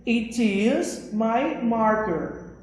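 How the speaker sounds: slow, careful English example; slow model sentence. Shown as a demonstration. Teacher holding up the marker for students, slowly. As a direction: say each word slowly and clearly. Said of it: "Eu posso dizer".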